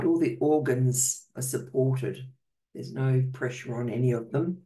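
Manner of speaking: calm, unhurried meditation guidance with long pauses; guided meditation. Real, not acted. Host guiding healing circle to get comfortable, calm meditation voice. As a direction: settle listeners in, leaving space between phrases.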